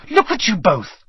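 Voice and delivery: high-pitched alarmed cry; indignant shriek. A narrator's reading. Hermione sees both boys caught by the plant, shrieking. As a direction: shriek it at two foolish friends. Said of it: "shrieked Hermione".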